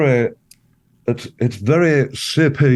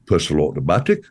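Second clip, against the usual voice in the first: lower, deadpan Geordie "Personal automatic"; Geordie phrase; 5 semitones lower, much faster than usual. Shown as a demonstration. Guest demonstrating the Geordie key phrase, low and deadpan. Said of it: "these two words".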